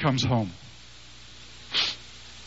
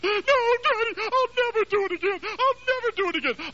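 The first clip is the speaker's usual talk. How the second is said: put-on very high blubbering boy's voice; mock crying child. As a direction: wail like a sobbing little boy. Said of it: "and he's just crying".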